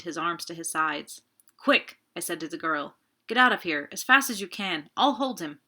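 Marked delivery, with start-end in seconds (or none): 1.6-2.0 sharp loud command; urgent shout. Acted. Urging girl to flee. 3.3-5.6 loud, pressing order to run; urgent shout. Acted. Urging girl to flee.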